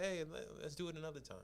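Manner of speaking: soft, quiet nice letdown; gentle letdown. Retold or imitated. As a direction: let her down softly. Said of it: "nicer rejection".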